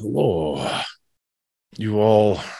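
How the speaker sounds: clichéd, tropey put-on monster voice. Narrating a cave scene, the storyteller voices a creature greeting the group: tropey creature voice. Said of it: "I'm going tropey".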